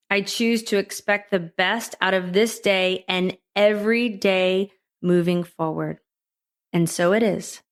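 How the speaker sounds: measured affirmation read line by line; calm recited mantra for listeners to echo; slow mantra. Shown as a demonstration. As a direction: lay each line out slowly so they can repeat it. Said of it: "I'll say it a little slow".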